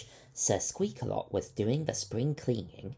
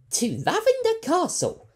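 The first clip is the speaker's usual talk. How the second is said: much higher, louder cry; excited call; 12 dB louder than usual. A narrator's reading. Doctor cheering the departure, excited. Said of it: "called Leica excitedly".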